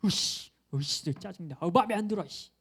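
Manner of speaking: acted grumbling outburst; mock resentful fuming. Preacher imitating an always-resentful friend, mock fuming. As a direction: play at seething over every little thing. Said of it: "뭐 맨날 뭐가 분해".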